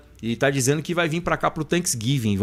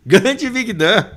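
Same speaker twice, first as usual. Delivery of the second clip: excited shout-out; 8 semitones higher, 6 dB louder, much slower than usual. Real, not acted.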